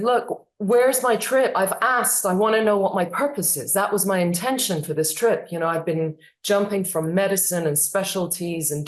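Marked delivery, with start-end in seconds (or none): 0.0-5.5 insistent demand. Retold or imitated. Third, insistent demand to Mayans.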